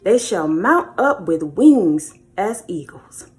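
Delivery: slow, measured reading of the verse; scripture reading. Acted. Preacher reading Isaiah to viewers, slow and solemn. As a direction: read the Bible verse out slowly and solemnly.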